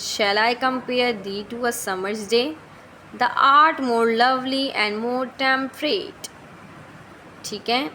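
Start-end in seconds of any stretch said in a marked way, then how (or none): 0.0-6.3 slow, deliberate recital of the verse; reading the sonnet aloud. Shown as a demonstration. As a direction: read the lines out like a quoted poem. Reads sonnet passage slowly.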